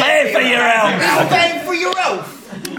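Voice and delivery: loud, high Cockney shout; Cockney accent. Pretend. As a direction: bellow it in Cockney. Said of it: "say it with your Cockney accents".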